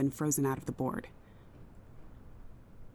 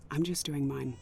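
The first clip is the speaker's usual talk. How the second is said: tearful. Acted. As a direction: voice catching on tears, holding it together. Wife fears team's shutdown.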